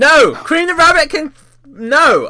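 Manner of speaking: furious. Told to calm down during an argument about video game characters, angry. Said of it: "I'm so angry right now!".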